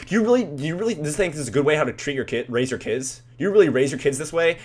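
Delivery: high-pitched indignant questioning, imitated; mock confrontational. Husband turning on the teen's mom, mock indignant. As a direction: scold a parent in mock outrage. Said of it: "kinda confronting us".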